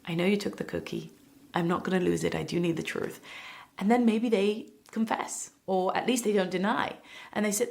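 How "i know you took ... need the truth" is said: calm parent. Shown as a demonstration. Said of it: "you're calm".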